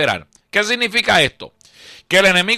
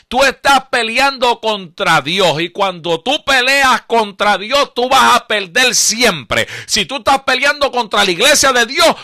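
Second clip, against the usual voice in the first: preaching; 5 semitones higher than usual. Acted. Pastor warns the congregation against fighting God, fervent preaching. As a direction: drive each repeated line home to the congregation.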